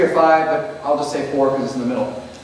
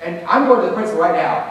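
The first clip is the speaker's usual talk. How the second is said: mock outraged parent; 8 semitones higher than usual. Teacher voicing a staged parent accusing him of plagiarism, outraged. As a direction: rage at the teacher like a scandalized parent. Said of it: "and the parent says".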